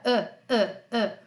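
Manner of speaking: "Ã" as a short throaty "euh"; mute French E. Shown as a demonstration. Teacher showing the sound from the throat, throaty "Ã". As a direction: push out "Ã, ã, ã" as short schwas from the throat. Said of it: "aquele som que sai daqui da garganta".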